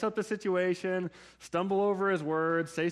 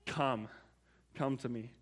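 gentle call; 5 semitones lower, 7 dB quieter than usual. Retold or imitated. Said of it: "Jesus just says".

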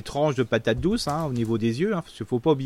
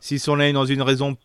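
slight lisp from a bitten tongue; lisping on the s sounds. Real, not acted. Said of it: "des fois je zozote".

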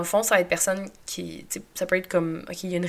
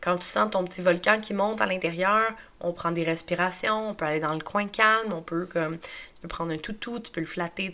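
soothing mother. Retold or imitated. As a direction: gently reassure a little girl. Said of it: "je dis la même chose à ma fille".

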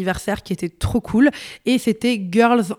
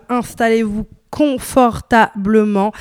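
playful intro patter; slower than usual. Real, not acted. Host's playful opening patter.

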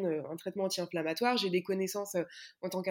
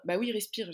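mimicking struggling breath; wheezy voice. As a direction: gasp out the word like you can't breathe. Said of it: "j'arrive pas à respirer".

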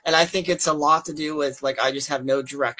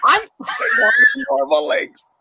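raised high and loud, nearly shouting; heated outburst; 11 semitones higher, 4 dB louder than usual. Real, not acted. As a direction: blurt it out hot, nearly yelling. Emphatic outburst about being disabled.

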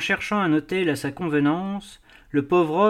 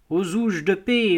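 put-on old cobbler crying out; 4 semitones higher than usual. A narrator's reading. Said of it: "Un vieux cordonnier juif criait".

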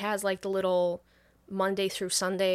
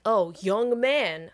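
mock old man; 6 dB louder, much slower than usual. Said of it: "the dude from the couple is like".

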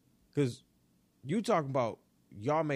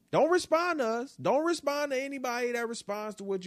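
scolding; 7 semitones higher, 3 dB louder than usual. Acted. Scolding a player.

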